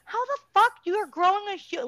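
high, fast incredulous outburst. Retold or imitated. Mom scoffing at stories of painless pregnancy, high fast disbelief. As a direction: rattle it off in disbelief. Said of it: "And I'm like".

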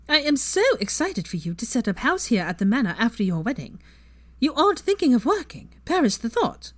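sugary sweet fake voice. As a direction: purr it out with fake sweetness, meant to needle. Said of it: "her sugary sweet fake sissy voice".

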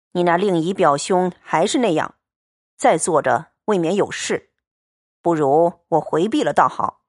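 steady, cool young swordsman, lightly voiced; calm and blunt, a man of few words; Liu Xianglian's voice. Xianglian calmly tells Baoyu the money is set aside, steady and cool.

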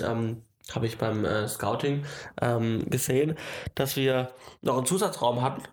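blocked nose, needs blowing; stuffy nose. Real, not acted. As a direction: speak through a stuffy nose. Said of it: "ich muss kurz Nase putzen".

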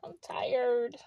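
soft unvoiced whisper. Real, not acted. Vlogger confessing exhaustion, whispered. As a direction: breathe it out as a whisper. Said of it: "whispered repeat".

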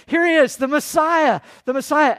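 loud, high proclaiming of the Messiah; crowd proclaiming. Retold or imitated. Crowd hailing Jesus as king, loud and high.

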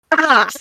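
playful little yelp of dismay; mock dismayed cry. Mock reaction to the British accent.

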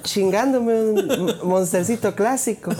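slow, laughing mock line. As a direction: drawl it out through laughter.

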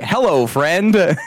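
lightly voiced friendly cat, drawn out. Player voices the cat greeting her victim, friendly and drawn out. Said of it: "that's the vibe where she's just like".

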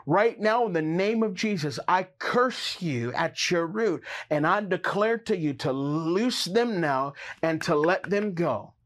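sharp, commanding rebuke; forceful preaching prayer. Acted. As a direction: curse it at the root. Rebukes fear of lack.

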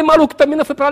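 high, loud retold holler; calling out. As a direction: shout helpfully at a stranger. Calling out to the tall man.

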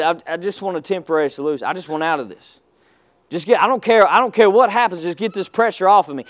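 mock the person who just wants out; rushed, hushed complaining voice; desperate mindset. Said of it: "if you have that mindset".

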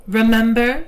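playful smiling lift in pitch; smile in the voice. A narrator's reading. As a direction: say it through a smile. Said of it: "with a smile in her voice".

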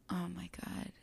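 breathless whispered oh my God; hushed, caught by the memory; real emotion, almost no voice; overcome whisper. Real, not acted. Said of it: "I feel this so much when I say this".

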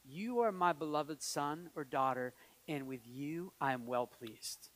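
slow, low, soft pronouncement; unhurried, quiet assurance; tender blessing. Retold or imitated. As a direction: speak a blessing gently over them. God's blessing spoken over listeners.

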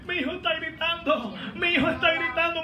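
high, excited imitation of a mother; astonished mother. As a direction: cry it out like an amazed mother. Voicing the mother's astonished cry. (madre asombrada, imitada con voz aguda)

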